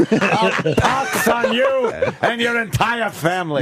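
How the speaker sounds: theatrical mock doom, drawn out; mock curse. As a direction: lay on a hammed-up curse. Joining in the joking curse.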